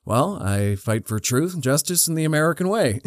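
earnest hero quote, rising toward the end; straight-faced declaration. Retold or imitated. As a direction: state the creed in all seriousness. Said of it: "fully straight-faced".

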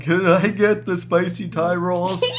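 slow, words breaking with laughter; fighting back laughter on the phone; laughing. Real, not acted. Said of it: "I can't even get the words out".

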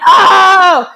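lightly hammed-up husband complaint; imitating upset husband. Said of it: "he's like".

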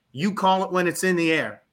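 imitated Tennessee director; Ray Patterson, Southern accent. Director telling student to call the toss, Southern accent. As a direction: put on a Southern twang to give the instruction. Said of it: "Southern accent".

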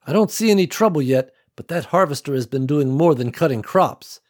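alert, firm leader voice; tense team leader. Acted. Nicole on the radio.

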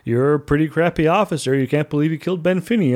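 mocking put-on voice, quickening at the end; silly officer voice. Starbase officers mocking Kirk, goofy put-on voice. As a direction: jeer at the captain in a goofy voice. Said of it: "I don't know why I'm doing that voice".

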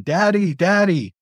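high squawky call of Daddy; parrot calling Daddy. Retold or imitated. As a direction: mimic the bird calling out for Daddy. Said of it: "was yelling".

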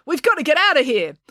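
high, urgent exclamation; urgent cry. A narrator's reading. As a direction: cry out to flee at once. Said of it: "cried April".

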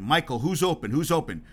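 retold demand, pressing on open. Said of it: "Jackson demanded of Jordan".

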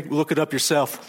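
snippy, laughing assistant; bitter voice. Pretend. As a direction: brush off the question with a sneer. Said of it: "if Siri had a bitter voice".

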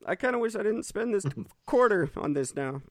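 high, fast gawking tourist voice; tourist impression. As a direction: play a dopey sightseeing tourist. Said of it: "That's my impression of a tourist in New York".

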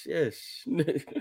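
high, soft prim mock-British yeses; dainty posh yes; prim English yes. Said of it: "I looked at like".

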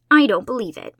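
loud blunt denial; flatly, no give at all; flat and firm. A narrator's reading. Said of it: "said Josie flatly".

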